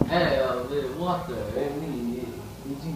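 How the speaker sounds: hesitant, lightly faked French accent. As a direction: put on a French accent, quietly.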